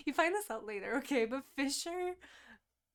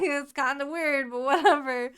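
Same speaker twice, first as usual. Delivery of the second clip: louder, breezy shrug; mock nonchalance; 3 semitones higher, 12 dB louder than usual. Karen shrugging off the water sprites, breezy and loud. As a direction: brush it off loudly.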